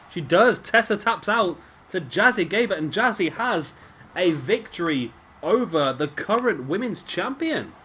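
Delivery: loud, high play-by-play burst as the tap-out lands; excited call. Real, not acted. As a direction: call the finish like a hyped commentator. Calling the submission win live.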